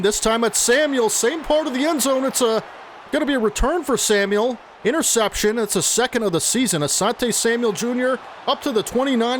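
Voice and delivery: genuinely hyped commentary; excited call. Real, not acted. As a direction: call the interception like a fired-up announcer. Interception during a close game.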